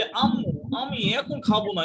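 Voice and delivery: sing-song, pouty pleading to mom; coy whining tone. Shown as a demonstration. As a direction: whine it coyly like a spoiled child. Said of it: "একটু ঢং করে বললে কি হবে?".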